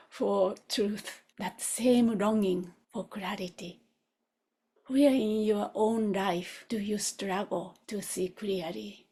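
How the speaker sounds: measured meditative voice with spaced phrases; guided contemplation. Real, not acted. Teacher guides students through the master's search for truth, meditative telling. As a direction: pose it gently and leave silence for reflection.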